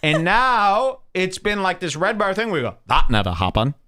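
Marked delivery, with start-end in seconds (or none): 2.9-3.8 lightly imitated mocking accent; hint of another man's voice; Morik. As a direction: toss out the mocking catchphrase, a bit louder. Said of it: "in his voice".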